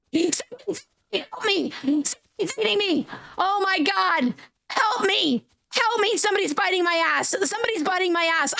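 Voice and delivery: high mock panicked cries for help, fast at the end; yelling help half in jest as something bites; hammed-up panic. Real, not acted. Dinosaur attacked in game.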